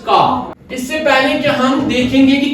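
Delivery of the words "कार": British pronunciation of कार; British accent. Shown as a demonstration. Teacher contrasting it for students, British accent. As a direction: say car the British way, R dropped. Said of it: "but Britishers".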